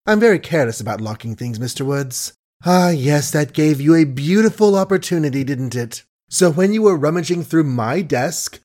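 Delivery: honeyed voice hiding contempt; sweet as honey yet cutting; suave sweetness. Acted. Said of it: "Suave, gentle, sweet as honey was the speech".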